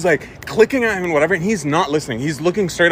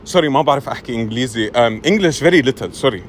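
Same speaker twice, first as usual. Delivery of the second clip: put-on feigned poor English in an Arabic accent; halting Arabic-accented apology; 4 semitones lower than usual. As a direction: play innocent with a thick-tongued Arabic accent. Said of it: "I let the Arab take over".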